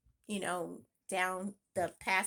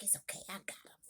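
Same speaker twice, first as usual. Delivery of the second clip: imitating son; 2 semitones lower, 10 dB quieter, faster than usual. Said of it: "He was like".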